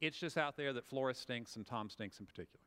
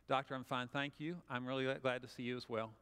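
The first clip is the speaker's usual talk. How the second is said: calm and polite; 4 semitones lower than usual. Shown as a demonstration. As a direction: speak calmly and politely to the doctor. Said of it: "say it professionally, calmly, and politely".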